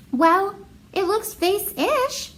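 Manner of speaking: bright high cheerful exclaim, slow. Acted. Marisol cheering up her brother about his vase. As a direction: sell the word vase-ish with delight. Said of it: "she exclaimed".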